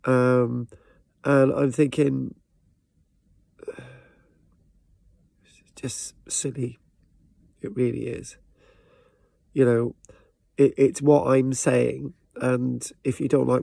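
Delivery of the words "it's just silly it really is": slow breathy whisper, dismissive; a slow whisper brushing off a troll; whispered aside. Real, not acted. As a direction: drop to a weary slow whisper.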